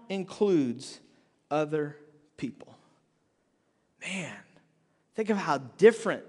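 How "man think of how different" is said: hushed awe. Real, not acted. Awed aside to the congregation.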